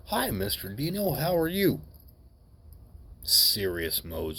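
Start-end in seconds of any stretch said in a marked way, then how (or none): 0.1-1.8 mock-innocent little boy, pitched higher; polite kid greeting. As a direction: sweetly greet the scary adult, voice up high. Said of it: "He goes".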